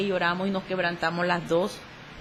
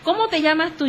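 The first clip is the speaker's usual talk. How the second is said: higher, louder puzzled father; imitating father's confused question; 8 semitones higher, 5 dB louder than usual. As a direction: ask her name like a lost old man. Father not recognizing daughter.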